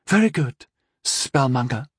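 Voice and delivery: a bit too bright and eager; overly enthusiastic. Acted. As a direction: gush the praise a touch too much. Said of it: "with just a little too much enthusiasm".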